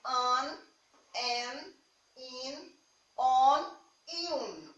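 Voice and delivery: "an, en, in, on e um" spaced out, each sent through the nose; nasal vowels. Shown as a demonstration. Teacher giving examples of vowel plus N, "an, en, in, on e um" said nasally. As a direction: let "an, en, in, on e um" resonate nasally, one at a time. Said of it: "ele sai pelo nariz".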